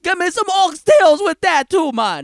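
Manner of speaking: hint of a Jamaican accent ordering food. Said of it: "With my Jamaican patty".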